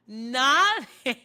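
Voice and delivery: laughing. Real, not acted. Laughing retelling friend ignoring.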